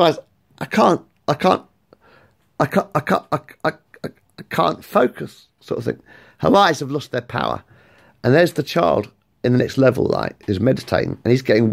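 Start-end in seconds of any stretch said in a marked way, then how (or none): 0.6-5.5 struggling Medusa. Acted. Medusa losing her power.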